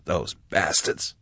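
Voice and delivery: slow, low, hushed curse; bitter words under the breath; whispered. A narrator's reading. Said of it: "she whispered".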